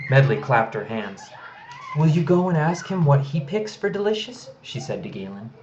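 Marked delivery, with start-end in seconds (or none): 2.0-4.5 put-on higher, eager little girl; little girl's voice. A narrator's reading. Medley asking Galen to find the creature, eager and high. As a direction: ask it like an excited little girl.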